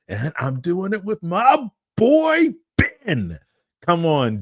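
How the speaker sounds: upbeat show host welcome; host intro. Acted.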